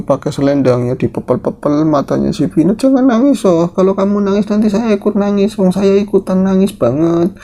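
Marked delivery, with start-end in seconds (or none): 2.7-7.4 pleading granny. Acted. Nenek membujuk Vina yang menangis.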